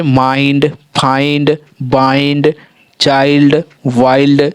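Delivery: spaced word list with "ai" in माइंड, फाइंड, बाइंड; teacher sounding out examples singly; pronunciation demo. Shown as a demonstration. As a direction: say चाइल्ड and वाइल्ड with a full "eye". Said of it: "तो आई का उच्चारण हो रहा है".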